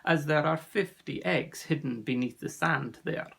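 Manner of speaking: put-on accented, measured storyteller; grave sea serpent. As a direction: tell the danger gravely, with a lightly voiced foreign accent. Narrator plays Ossian, sea serpent.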